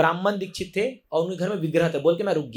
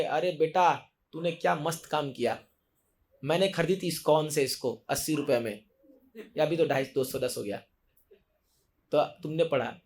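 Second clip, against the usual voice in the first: lightly acted grandfather, lower and softer; softly lowered voice, lightly playing a grandfather; lightly voiced grandfather; 4 semitones lower, 4 dB quieter than usual. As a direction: quietly address a grandchild, a hint of an elder. Voices grandfather looking down from heaven.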